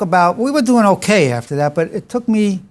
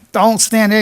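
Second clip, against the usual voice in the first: mock scolding, pitched up; lecturing son; 5 semitones higher than usual. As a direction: imitate a son telling his father off. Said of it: "he starts lecturing me".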